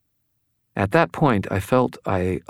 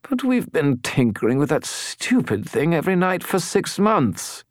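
much higher whining skull voice; whiny tone; 7 semitones higher than usual. A narrator's reading. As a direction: whine like a sulky spirit. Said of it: "The skull's voice took on a whiny tone".

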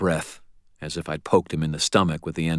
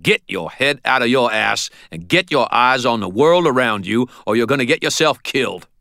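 angry shout; 7 semitones higher, 5 dB louder than usual. Acted. Ebenezer berating him.

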